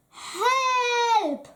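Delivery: sudden high cry of alarm; startled high shout. A narrator's reading. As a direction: yelp it out, caught by surprise.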